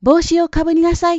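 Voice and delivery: loud, high-pitched nag; nagging mother. A narrator's reading. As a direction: insist like a fussing mother. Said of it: "うるさく言います". (口うるさい母親の声で)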